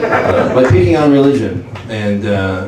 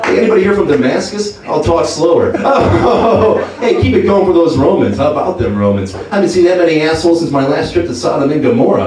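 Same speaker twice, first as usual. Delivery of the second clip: stand-up comic Jesus; 3 semitones higher than usual. Retold or imitated. Jesus on the cross opening his comedy set. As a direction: work the room like a cheesy headliner. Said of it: "ultimate stand-up comedian".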